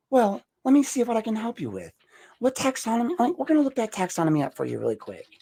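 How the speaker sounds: very high, forced helpful operator; happy phone voice. Shown as a demonstration. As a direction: chirp like an eager helpline worker. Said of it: "my happy phone voice".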